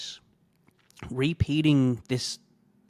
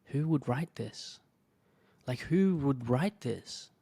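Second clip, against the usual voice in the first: stunned whisper; 2 semitones higher than usual. Retold or imitated. Reacting to the hate email, stunned whispered disbelief. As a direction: breathe out the shock. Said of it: "and I was like".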